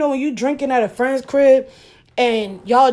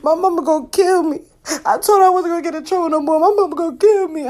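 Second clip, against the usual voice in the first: mock boo-hooing; 6 semitones higher, faster than usual. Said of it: "one nigga in the back boo-hooing".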